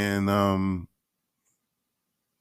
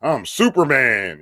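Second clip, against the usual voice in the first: mock boastful president; 4 semitones higher, slower than usual. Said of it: "He would have came out like".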